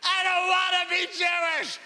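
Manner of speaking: put-on high wailing kid yell; mock crying child. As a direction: wail it like a sobbing little boy. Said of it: "I start crying hysterically".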